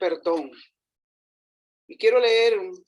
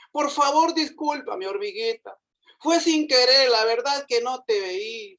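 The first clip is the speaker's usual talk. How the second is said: elephant pleading; 3 semitones higher than usual. Acted. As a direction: beg the little ant for forgiveness. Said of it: "suplicó el elefante".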